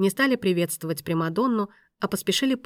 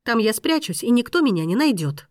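agitated insistence; 4 semitones higher, 4 dB louder than usual. Acted. Agitated woman continues argument.

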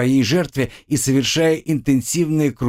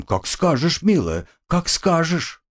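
mocking; 7 semitones higher than usual. A narrator's reading. Captor mocks the girl.

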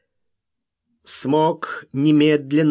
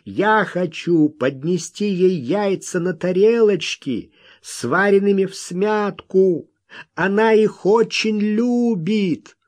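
higher, eager explanation; heated fervour; 7 semitones higher, 3 dB louder than usual. A narrator's reading. Wild man explaining his gift for her, heatedly. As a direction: explain with ardour, pitch raised. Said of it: "с жаром выкрикнул он".

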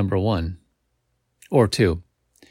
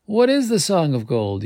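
raised, begging question; pleading; 8 semitones higher, 3 dB louder than usual. A narrator's reading. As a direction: plead with her to answer. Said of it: "you plead".

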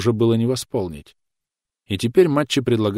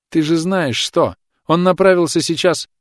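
high, loud panicked sobbing; hysterical shrieking on phone; 9 semitones higher, 6 dB louder than usual. Acted. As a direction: shriek it through tears. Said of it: "Истерически рыдая, она визжала".

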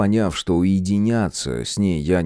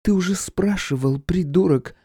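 much higher, hissed insult; hissing woman Irka; 10 semitones higher than usual. Acted. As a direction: spit it out in irritation. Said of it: "зашипела Ирка".

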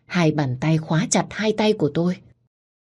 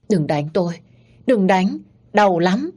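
put-on childlike begging, rising higher; trembling plea; 3 semitones higher than usual. A narrator's reading. Young master hides in the blanket, pleading fearfully. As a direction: beg in fear of a beating. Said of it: "run rẩy và van xin".

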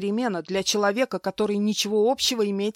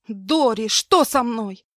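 louder, higher frightened question; 4 semitones higher, 6 dB louder, slower than usual. Acted. Woman in pain asks her maid, frightened louder question. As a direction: ask in panic.

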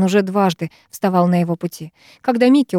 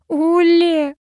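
much higher cry of a name, mildly weeping; sobbing; 10 semitones higher than usual. A narrator's reading. Sara crying over Olli's body, high and tearful. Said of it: "рыдает Сара".

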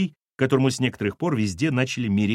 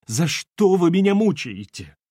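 slow, higher-pitched tearful plea; tearful protest; 6 semitones higher, 4 dB louder than usual. Acted. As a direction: plead as if tears are welling up. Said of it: "Глаза у неё налились слезами".

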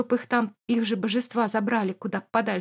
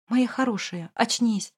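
pleading. Acted. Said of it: "молит Эмир".

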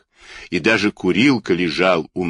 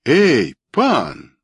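higher, sharp hailing call; shouted challenge; 5 semitones higher, 4 dB louder than usual. A narrator's reading. Wooden soldier confronts Kurilka, shouted challenge. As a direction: hail him with a mild shout. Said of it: "закричал тут деревянный солдатик".

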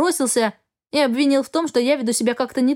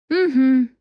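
bored drawl; 2 semitones higher, 3 dB louder than usual. Acted. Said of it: "со скукой протянула я".

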